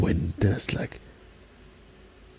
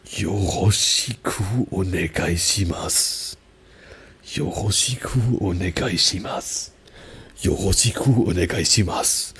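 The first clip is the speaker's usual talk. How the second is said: Arnold-style German accent; 3 dB louder than usual. Shown as a demonstration. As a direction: plant each word like Arnold Schwarzenegger. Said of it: "Do I sound like Arnold".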